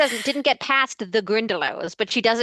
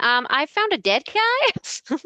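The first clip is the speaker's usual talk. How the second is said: mock Harry; 8 semitones higher, much slower than usual. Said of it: "And Harry's like".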